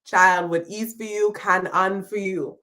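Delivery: put-on whispered Jamaican grandmother comforting a child; hushed elder telling a struggling child the proverb; grandmother's advice. Grandmother soothing a struggling child, whispered. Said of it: "like a grandmother".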